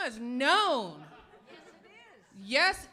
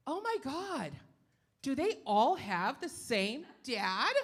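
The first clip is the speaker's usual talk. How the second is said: nosy questioner; slower than usual. Retold or imitated. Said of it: "ask me really stupid questions like".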